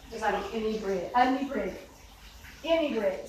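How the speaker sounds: choking on dust mid-word; coughing and choking while talking. Real, not acted. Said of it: "Sorry, I can't talk and I'm choking".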